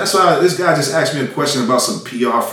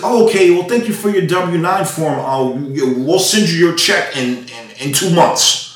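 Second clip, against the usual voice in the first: higher, lightly voiced customer-service politeness; mock polite Joey; 4 semitones higher, slower than usual. Rapper imitating the TuneCore rep Joey, mock polite. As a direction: sweetly stall him like a rep. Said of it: "And he said".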